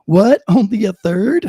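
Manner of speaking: loud shocked outburst, then laughing; surprised. Real, not acted. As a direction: react in laughing disbelief. Shocked by survey figure.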